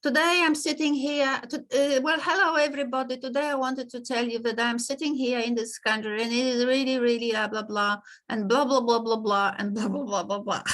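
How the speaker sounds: dull, lifeless presenter tone; boring monotone. Shown as a demonstration. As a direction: drone on like a bored lecturer. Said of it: "You don't talk like this to people".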